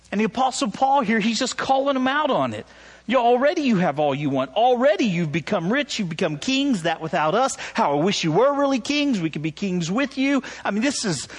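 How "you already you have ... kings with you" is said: higher, mock-flattering scripture read; thick sarcasm. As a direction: call them out with mock praise. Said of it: "Paul's laying it on thick here".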